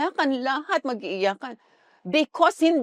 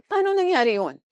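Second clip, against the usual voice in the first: higher, livelier rhetorical ask; eager question; 6 semitones higher than usual. Acted. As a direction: pose it like a teaser to the crowd. Preacher asks rhetorical question. (masiglang tanong sa madla)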